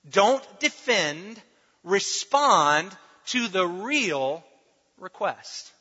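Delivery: "Respond" drawn out, every word spaced; slow emphatic repeat. Shown as a demonstration. To the congregation, slow emphatic repeat. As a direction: hammer the motto home slowly. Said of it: "The tool, the technique".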